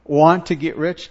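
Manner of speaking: WANT picked out in "want to get rich"; stress on WANT. Shown as a demonstration. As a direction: repeat it with emphasis on WANT. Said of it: "do you see the emphasis".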